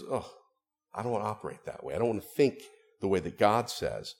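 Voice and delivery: softly dismissive acted refusal; mocking refusal. Preacher voicing thinking that mocks God, dismissive. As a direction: turn your nose up and decline. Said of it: "It's the kind that mocks God".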